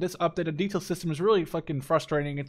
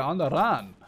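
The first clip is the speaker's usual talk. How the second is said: meme quote voice. Retold or imitated. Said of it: "Reminds me of Tiger Mafia".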